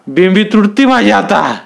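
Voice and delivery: sweating oilman begging the headman; pleading, out of breath. A narrator's reading. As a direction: beg between panting breaths.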